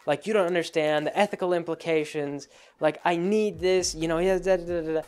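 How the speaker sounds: mock woe is me. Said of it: "they go straight to, uh, like".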